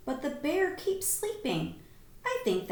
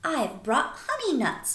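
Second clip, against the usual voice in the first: badger with a grin; 4 semitones higher, 3 dB louder than usual. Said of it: "Badger says with a grin".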